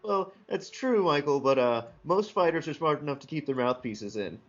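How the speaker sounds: put-on cockney accent. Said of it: "He's a little cockney".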